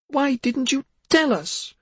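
slow, high pained question; anguished cry. Acted. Mother asks her daughter in anguish, crying. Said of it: "Yasmina cried".

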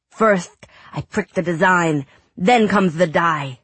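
a kid acting out a pirate tale; boy reading dramatically.

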